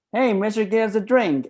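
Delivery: high-pitched shark hailing the bartender; shark customer. Acted. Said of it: "one of the sharks reply".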